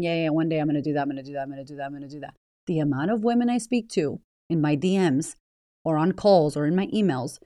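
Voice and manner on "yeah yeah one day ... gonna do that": fast, trailing mumble fading softer; lazy excuses mumbled into nothing; mock dismissive excuse. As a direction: brush it off lazily, fading away. Mocking procrastinator's excuses.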